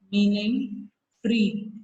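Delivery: "meaning free" drawn out very slowly word by word; slow it down so they can write "meaning free"; slow dictation. Shown as a demonstration. Teacher dictating notes to pupils, very slow and clear.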